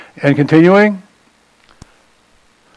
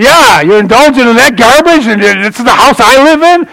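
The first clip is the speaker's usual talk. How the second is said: high, loud rebuke; mock outraged rebuke, higher and louder; retold scolding; 6 semitones higher, 4 dB louder than usual. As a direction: scold the tenant for wrecking the house. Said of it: "the Holy Spirit yelled".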